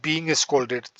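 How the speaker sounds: drawn-out phrase for students to copy; teacher slowly spelling out a new phrase for the class; slow dictation. Shown as a demonstration. Lay the words down slowly, one by one. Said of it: "teacher dictates phrase".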